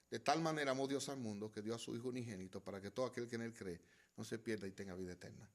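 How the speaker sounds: quiet scripture recital; softly recited scripture. Acted. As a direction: let the verse fall into a near hush. Quotes John 3:16 softly.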